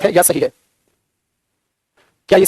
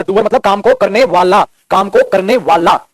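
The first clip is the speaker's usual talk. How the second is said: slow explaining; slower than usual. Shown as a demonstration. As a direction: slowly stress "को" in "काम को करने वाला". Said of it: "इसका मतलब होता है डूअर".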